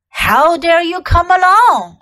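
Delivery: loud, furious witch; icy queen's outraged demand; terrible voice. A narrator's reading. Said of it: "said the witch in a terrible voice".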